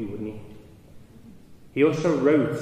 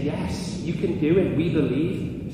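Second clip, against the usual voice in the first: crowd shouting back; 5 semitones higher, 4 dB louder than usual. Retold or imitated. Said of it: "they're all shouting".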